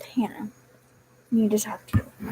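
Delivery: whispered, serious boss; imitated hushed boss. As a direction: breathe it like a private summons. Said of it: "and said".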